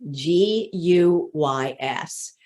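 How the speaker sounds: slow, letter by letter; spelled out. Shown as a demonstration. Coach spells the word she hears too often, slowly spelled out.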